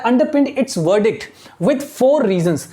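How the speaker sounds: very slow, word by word reading; slow classroom dictation of English text. Shown as a demonstration. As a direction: read it out slowly so students follow. Teacher dictating slowly.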